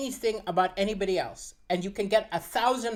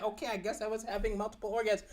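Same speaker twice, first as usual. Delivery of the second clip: grudging giving in; 5 dB quieter, faster than usual. Acted. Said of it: "and so she said".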